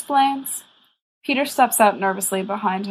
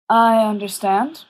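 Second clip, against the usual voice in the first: gently but firmly; 3 dB louder than usual. Acted. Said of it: "gently but firmly".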